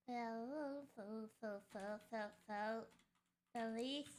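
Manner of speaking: halting, hiccuping start; words cut by hiccups. Real, not acted. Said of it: "I'm hiccuping".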